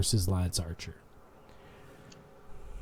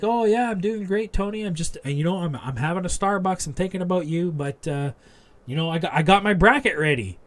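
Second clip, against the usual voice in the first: higher-pitched mock sweet voice on a video call; lightly voiced chirpy friend, teasing; imitating Britt Baker; 5 semitones higher than usual. Britt on FaceTime telling Tony her bracket is ready, higher mock voice. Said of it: "And Britt's like".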